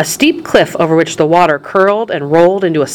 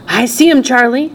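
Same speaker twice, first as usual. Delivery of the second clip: higher, excited grandpa voice; Grandpa Joe; 7 semitones higher than usual. A narrator's reading. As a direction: answer the boy excitedly. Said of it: "said Grandpa Joe excitedly".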